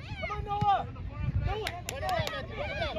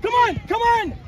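sideline shout; 4 semitones higher, 4 dB louder than usual. Real, not acted. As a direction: shout to the players, loud.

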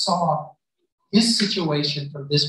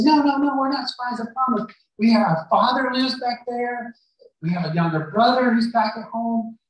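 pleading brothers; 5 semitones higher than usual. Retold or imitated. Brothers plead they're not spies.

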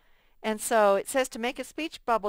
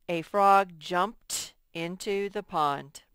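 slow reading; slower than usual. Shown as a demonstration. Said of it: "teacher reads example slowly".

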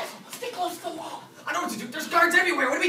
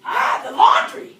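laughing, slow, delighted shout; excited shout; 7 semitones higher, 13 dB louder, slower than usual. Acted. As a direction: shout it out like a eureka. Excited realization of the plan.

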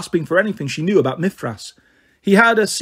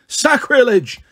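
put-on a higher, louder old man's yelp; mild yelp; 7 semitones higher, 4 dB louder, slower than usual. Outraged old ghost priest yelps at Annabeth. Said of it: "the old man yelped".

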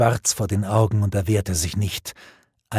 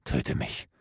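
whisper; 9 dB quieter than usual. A narrator's reading. Defeated knight begs for death.

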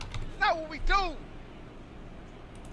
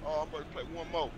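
mocking imitation; 10 semitones lower, 6 dB quieter, faster than usual. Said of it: "I went to your stream and I said".

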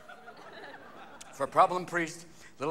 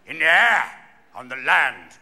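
Churchill speech voice; 6 dB louder, slower than usual. Retold or imitated. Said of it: "a man from the B B C who also did Winnie the Pooh".

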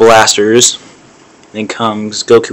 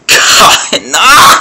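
laughing; 9 semitones higher than usual. Real, not acted. Laughs in disbelief.

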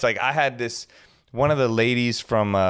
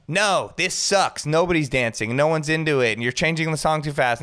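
mock complaining housewife; 4 semitones higher than usual. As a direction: drag it out like a spoiled guest.

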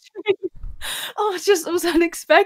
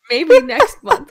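louder, higher, breaking into laughter; laughing joke; 7 semitones higher, 9 dB louder, slower than usual. Real, not acted. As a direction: say it through a real laugh. Jokes about a first monitor.

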